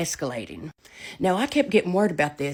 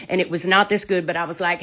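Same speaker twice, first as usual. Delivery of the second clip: ordinary delivery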